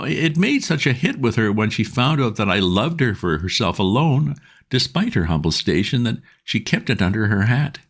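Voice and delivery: trying hard to be calm and failing; agitated Bingo. A narrator's reading. Bingo bursting in on Wooster, agitated.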